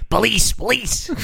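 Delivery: high, slow mock wail; hammed-up high call of police; mock cry for help. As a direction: whine it out high like a fake victim. Man cries for police.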